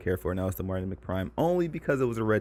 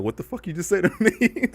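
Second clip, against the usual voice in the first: higher, louder hammed-up outrage; mock angry comeback; 10 semitones higher, 5 dB louder than usual. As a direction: play the offended customer, half joking. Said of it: "that were me and I was black".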